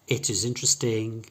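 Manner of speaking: "It is interesting" with short I vowels. Shown as a demonstration. Teacher repeating the natural version, short I sounds. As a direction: keep "It" and "is" lax, not ee. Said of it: "sounds much more natural".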